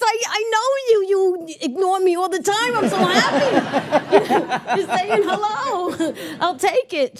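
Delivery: high, laughing mock scold to a neighbor; lightly voiced delighted teasing; giddy retort. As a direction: tease them happily through laughter. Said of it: "And I'd go".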